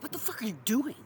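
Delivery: high, loud alarmed shout; urgent yell. Retold or imitated. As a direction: yell to stop someone. Imitating alarm at a mistake.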